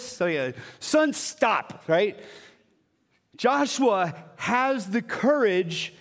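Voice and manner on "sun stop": commanding call. Retold or imitated. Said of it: "Have you ever tried to do this?".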